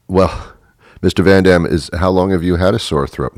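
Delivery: a hint of a polite clerk; receptionist voice.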